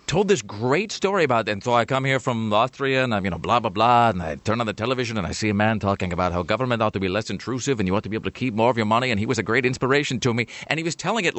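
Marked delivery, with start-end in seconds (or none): 1.5-10.5 Austrian Paul Harvey. Retold or imitated. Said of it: "full-on Paul Harvey, like, via the Alps style".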